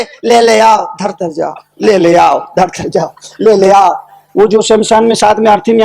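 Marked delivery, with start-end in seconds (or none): 0.0-3.9 retold chant, let it sag; mumbled repetition. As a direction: repeat it lower, dropping on every second phrase. Fool repeats the phrase while walking.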